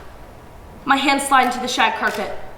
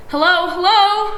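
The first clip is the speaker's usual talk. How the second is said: phone operator; 8 semitones higher, 6 dB louder, slower than usual. A narrator's reading. Operator asking again.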